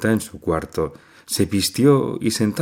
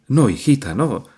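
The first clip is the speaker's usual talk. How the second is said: higher, quick anxious denial; hasty and frightened; 6 semitones higher than usual. A narrator's reading. Mother hastily answering her frightened daughter. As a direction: rush to calm her, alarmed. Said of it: "presurosa y asustada".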